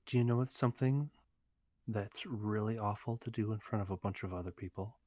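mock whisper. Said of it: "and she whispers".

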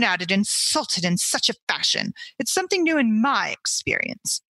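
mild affronted lecture on her way out; offended dignity. Acted. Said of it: "with an air of offended dignity".

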